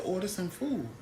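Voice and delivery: hushed, under the breath; whispered aside. Retold or imitated. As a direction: say it quietly so nobody hears. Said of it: "I whispered so nobody else would hear".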